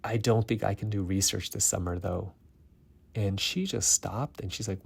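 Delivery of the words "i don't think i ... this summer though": forced politeness through gritted teeth; strained, through clenched teeth. Retold or imitated. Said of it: "through gritted teeth".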